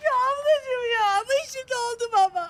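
tearful, sobbing plea; crying. Acted. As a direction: speak through tears. Sinirleri bozulmuş, ağlıyor. (ağlayarak)

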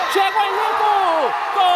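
building to a goal cry; goal shout. Real, not acted. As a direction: burst into the goal. Gol narrado ao vivo. (grito de gol)

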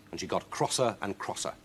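usual speaking voice

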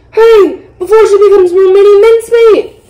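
high, loud hurry-up; urgent shout. A narrator's reading. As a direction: urge everyone on in alarm. Brother urges on the rescue.

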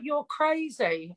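high, slow mocking disbelief; drawn-out imitated amazement. Friends reacting to her dealing outside police station, high slow mock disbelief. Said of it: "And everyone was like".

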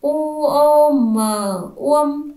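U o m spelled slowly and loudly, then uông joined; slow loud spelling. Shown as a demonstration. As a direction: drag each letter for the class. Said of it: "Chúng mình đánh vần". (đánh vần chậm và to)

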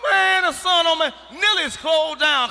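loud high complaint; shout. Acted. Comic hollering about the sun beating down.

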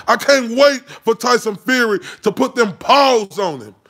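a hint of a scrappy little fighter. Shown as a demonstration. Ranting vlogger rooting for Tyson Fury, in a lightly scrappy voice. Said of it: "in my little scrappy voice".

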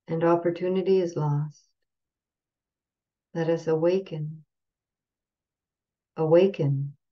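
measured gatha recitation with pauses between phrases; unhurried spoken verse, softening at the close; slow recitation. Shown as a demonstration. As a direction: recite it evenly, pausing after each phrase. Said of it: "I'll go say it slowly".

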